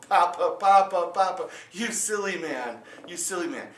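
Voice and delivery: put-on a clever girl gently chiding papa; fond daughter. Daughter teasing her father.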